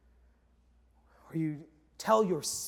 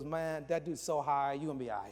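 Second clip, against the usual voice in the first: quiet reassurance; 5 semitones lower, 7 dB quieter than usual. Retold or imitated. Another passenger reassuring the scared husband, hushed. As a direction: confide it softly, imitating a bystander.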